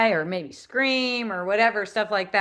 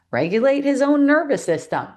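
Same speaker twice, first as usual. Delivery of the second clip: hushed, awed whisper; 5 semitones higher, 4 dB louder than usual. Real, not acted. Telling a friend how her son calmed himself, whispered. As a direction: breathe it out in wonder.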